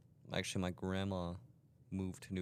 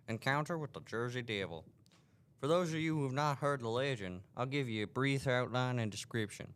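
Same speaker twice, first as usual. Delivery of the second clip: put-on southern accent; 2 semitones higher than usual. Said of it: "I'll just do a southern accent".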